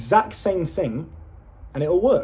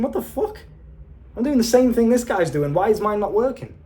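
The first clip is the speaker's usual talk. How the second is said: frustrated disbelief; 5 semitones higher than usual. Retold or imitated. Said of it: "you're thinking".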